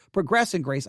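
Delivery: progress stressed on the second syllable, pruh-GRESS; corrected verb reading. Shown as a demonstration. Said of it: "would be the correct way".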